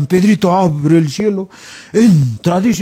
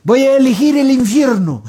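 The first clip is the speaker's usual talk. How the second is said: slightly orator-like, higher voice; mock-grand announcement; 5 semitones higher than usual. Alan announces he will choose hell, mock-grandly. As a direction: declare it as a politician would. Acted speech of politician Alan.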